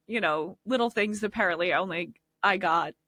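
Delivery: ordinary talk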